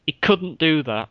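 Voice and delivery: couldn't in a Hull accent. Shown as a demonstration. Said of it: "I'm gonna put on my best Hull accent".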